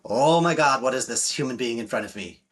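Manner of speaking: mock stunned woman; amazed. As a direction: caught off guard by his calm. Woman amazed by present man.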